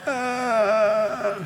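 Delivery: a drawn-out mock frightened moan; scared groan. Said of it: "scared me".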